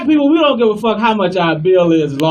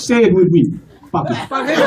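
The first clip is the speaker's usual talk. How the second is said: put-on African-accented father drilling a word; insistent African-accented lesson; African father instructing. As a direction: coach the kids in an African accent.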